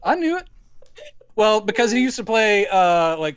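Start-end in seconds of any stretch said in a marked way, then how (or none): 0.0-0.5 Southern dad voice, a touch higher; impression of his father. Son impersonating his proud Southern father, light Southern voice. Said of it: "he talks more like this".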